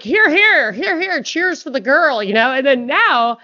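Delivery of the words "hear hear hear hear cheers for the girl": loud, high hear-hear cheers; mock cheering. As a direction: cheer like a rowdy crowd. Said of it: "everyone was like".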